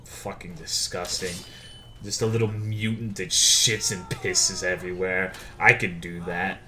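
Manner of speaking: low, quiet disgusted grumble; disgusted grumbling. Retold or imitated. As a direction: sneer it with low contempt. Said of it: "And I'm like".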